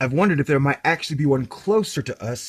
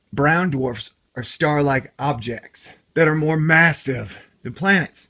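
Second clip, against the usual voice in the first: usual speaking voice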